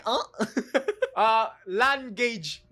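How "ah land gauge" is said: "land gauge" slow, as two words "lan ged͡ʒ"; teasing the clip's way of saying language; mocking mispronunciation. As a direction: drawl out the wrong "land gauge" while laughing. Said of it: "Mas maintindihan ko pa yung land gauge".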